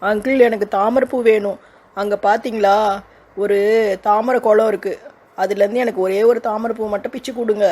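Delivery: lightly voiced pleading child; a hint of a sulky little girl asking a favour. Girl asks for lotus.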